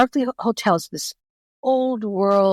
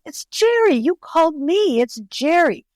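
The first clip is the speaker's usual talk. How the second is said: light imitation of a foreign accent, pitched up; lightly voicing Jerry's accent; a hint of a foreign accent, high; mock accent; 8 semitones higher than usual. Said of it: "he has an accent".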